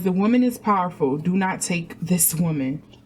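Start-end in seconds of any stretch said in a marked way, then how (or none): none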